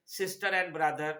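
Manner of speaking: "sister and" joined by an R; linking R. Shown as a demonstration. Teacher giving an example of linking R, R linked in "sister and". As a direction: link "sister" into "and" with an R. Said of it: "ये linking आर है".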